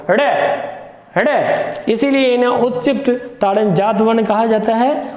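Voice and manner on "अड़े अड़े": अड़े with the flap flicked out; अड़े as two separate flapped demonstrations; shooed-away flap. Shown as a demonstration. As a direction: throw अड़े out as if driving it away. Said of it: "ताड़ दिया गया हो".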